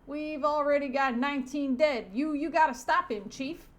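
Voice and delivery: loud, high, hammed-up pleading; urgent stereotype cop. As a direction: urge the chief in cartoon alarm. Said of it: "stereotype cop says".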